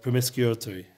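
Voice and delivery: PROMISCUITY with an extra r, like "promis-cure-tory"; stumbled pronunciation. Real, not acted. Teacher tripping over an English word, stumbled pronunciation. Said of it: "is that how I said it".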